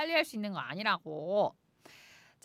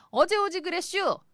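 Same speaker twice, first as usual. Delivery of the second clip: Chungcheong dialect; 7 semitones higher, 8 dB louder than usual. Retold or imitated. Swimmer behind voiced in dialect.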